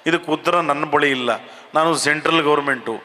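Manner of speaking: unhurried evasive minister talking to reporters; HD Kumaraswamy impression. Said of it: "H D Kumaraswamy ಅವ್ರು ಹೆಂಗೆ ಮಾತನಾಡೋದು ನೋಡಿ". (ನಿಧಾನವಾದ ರಾಜಕಾರಣಿಯ ಉತ್ತರ)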